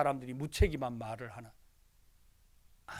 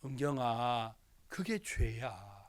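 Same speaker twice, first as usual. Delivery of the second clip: gentle rebuke; 6 semitones lower, 5 dB quieter, much slower than usual. Retold or imitated. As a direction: lower and softer, slow. Uncle gently telling niece her sin. (조카에게 낮고 조용하게 타이르는 말)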